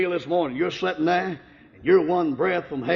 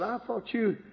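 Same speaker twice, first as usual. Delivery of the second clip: tearful; 5 semitones higher, slower than usual. Retold or imitated. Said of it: "My wife began crying and she said".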